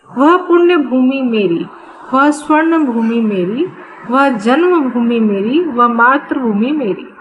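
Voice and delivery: rhythmic, evenly phrased refrain; poem recitation. Acted. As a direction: recite it in regular, parallel lines.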